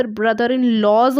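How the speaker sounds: brother-in-laws, the wrong form, said as a mistake; wrong plural. Shown as a demonstration. Teacher shows students the wrong plural brother-in-laws. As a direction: slowly offer brother-in-laws as the trap answer. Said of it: "तो वह गलत है".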